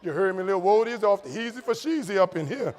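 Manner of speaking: a loud, playful New Orleans street-talk riff; New Orleans slang. Retold or imitated. Showing the audience his New Orleans talk, playful. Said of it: "laughed at the way I talked".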